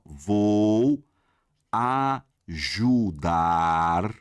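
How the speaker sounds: ajudar stretched very slowly, rising at the end; drawn out. Shown as a demonstration. Teacher to students stretching out ajudar. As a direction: drag out the word ajudar. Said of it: "teacher stretching the example".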